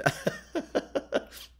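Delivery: high airy laugh at own joke. Real, not acted. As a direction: break into laughter. After mock lecture.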